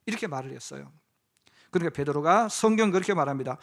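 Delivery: ordinary delivery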